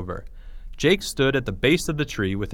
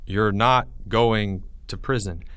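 whisper; 3 semitones lower than usual. Acted. Teacher whispers back reassuringly.

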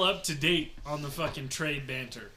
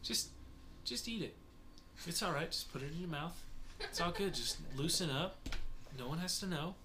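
softer coaxing; 9 dB quieter, faster than usual. Retold or imitated. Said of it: "and is like".

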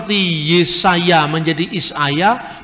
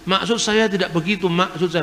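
Batak accent; 3 dB quieter than usual. Shown as a demonstration. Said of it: "tidak bisa ngomong maksud tapi maksud".

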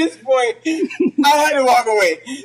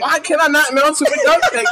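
baffled protest, pitched higher; incredulous, higher-pitched retold question; mock confusion; 5 semitones higher, 4 dB louder than usual. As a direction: imitate someone honestly baffled by a refusal. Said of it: "He was so confused".

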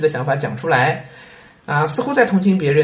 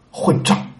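retold yell; 2 semitones higher than usual. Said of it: "那人大叫起来".

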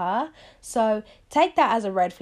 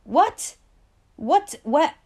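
disbelief; 6 semitones higher, 6 dB louder, much slower than usual. Real, not acted. Reacting in disbelief.

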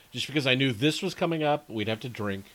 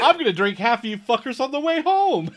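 menacing glee; 10 semitones higher, 6 dB louder, faster than usual. Pretend. Talks to the beers in the cart.

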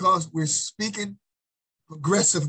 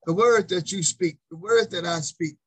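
"words" stressed hard in each repeat; emphasis on words. Shown as a demonstration. Preacher turning the verse on listeners, "words" stressed. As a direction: keep landing on "words". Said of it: "Trying to get you the emphasis on".

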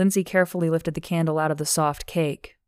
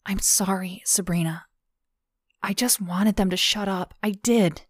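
tearful apology; 3 semitones higher than usual. Acted. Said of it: "wiping her eyes".

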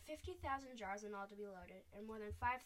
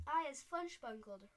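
slow, loud roaring giant; a slow angry giant roaring from the ground; giant's roar; 3 semitones higher, 7 dB louder than usual. A narrator's reading. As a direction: roar it out like a trapped, furious giant. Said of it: "roared the Flesh Lampeter".

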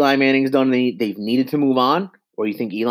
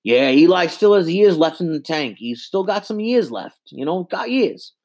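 Francesa impression; 5 semitones higher than usual. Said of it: "Then you get Francesa".

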